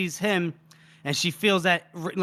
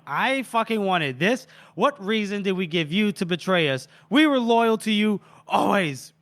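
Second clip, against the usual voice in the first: raised, heated acted outburst; half-yelled indignant protest, hammed up; mock screaming; 4 semitones higher than usual. Betrayed mercenary confronting her duke, contained mock screaming. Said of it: "She was basically screaming at this point".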